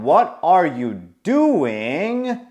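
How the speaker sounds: very slow, stretched mock yell; mild drawn-out call; retold yell. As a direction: imitate a yell in slow motion, without much volume. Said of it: "When I yelled".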